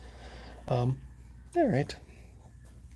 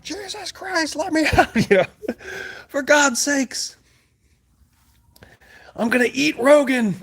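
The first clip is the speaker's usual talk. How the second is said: high, frantic pleading to be let out; hammed-up panic, pitched way up; panicked pleading; 14 semitones higher than usual. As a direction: beg like you're trapped in the dark. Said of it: "hyper panic there".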